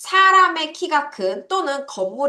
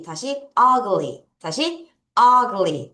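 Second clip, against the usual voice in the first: slow drill; 3 dB louder, much slower than usual. Shown as a demonstration. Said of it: "발음 어떻게 해요?".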